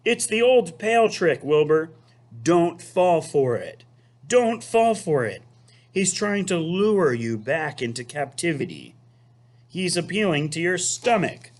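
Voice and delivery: high goose warning; high urgent goose pleading. Acted. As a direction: warn him off the trick. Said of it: "said the goose".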